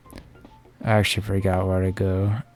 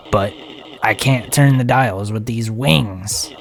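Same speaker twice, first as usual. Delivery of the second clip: stupid voice. Acted. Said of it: "That's a stupid voice".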